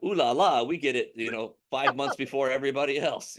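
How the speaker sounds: lightly attempted French accent; a playful, half-hearted French accent. Host jokingly voices the people in France, light French accent. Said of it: "that's my French accent".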